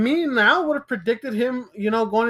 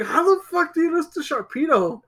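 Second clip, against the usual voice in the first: higher-pitched retold disbelief; incredulous; 5 semitones higher than usual. Friend hearing about a loss to Sharpedo, incredulous.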